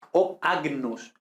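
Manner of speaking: agnus with a hard G then N, slowly. Shown as a demonstration. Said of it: "ojo, no ñ".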